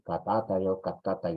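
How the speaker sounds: Katatai and katkatai, each said distinctly; two variants. Shown as a demonstration. Teacher shows both spellings of tremble aloud, careful. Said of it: "también se dice katkatai".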